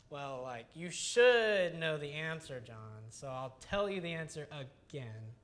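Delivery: sugary put-down with a hushed, cutting aside; mock passive-aggressive. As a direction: lightly play a passive-aggressive teacher. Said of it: "he's not being passive-aggressive".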